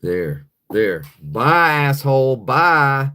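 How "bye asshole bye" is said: loud, curt dismissal; real angry send-off. Real, not acted. Host banning a rude guest, angry send-off. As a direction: send the troll packing, louder.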